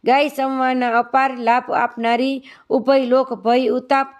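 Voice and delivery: measured, even hymn reading; spoken praise poem in steady metre; devotional verse recitation. Acted. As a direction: recite it as a morning prayer, line by line.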